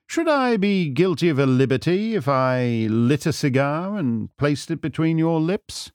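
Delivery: lightly voiced, polite detective; a hint of theatrical sleuth; courteous, teasing Holmes. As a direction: offer the favour with airy courtesy. Holmes offers a cigar.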